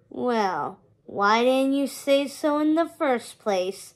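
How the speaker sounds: slow, lightly rasped skeleton voice; a hint of a dry skeleton rasp, unhurried; rasped skeleton line. Skeleton ferryman giving in to Hector, slow with a light rasp. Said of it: "the skeleton rasped".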